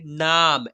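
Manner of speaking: नाम drawn out with a long आ; pronunciation demo. Shown as a demonstration. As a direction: model नाम as one stretched word. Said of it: "ऐसे उच्चारण करेंगे". (नाम को आ खींचकर बोलना)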